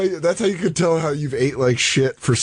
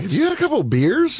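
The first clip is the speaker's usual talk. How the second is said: put-on old english; 10 semitones higher than usual. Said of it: "Nate's like".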